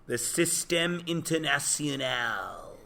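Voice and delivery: Système International said the French way, slow, nasal "Système"; a slow, self-mocking French accent on Système International; bad French accent. Shown as a demonstration. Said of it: "which is my bad French".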